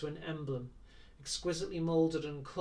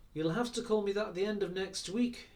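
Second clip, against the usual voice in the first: regal dignity; 6 semitones higher, 4 dB louder than usual. Acted. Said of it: "sudden assumption of regal dignity".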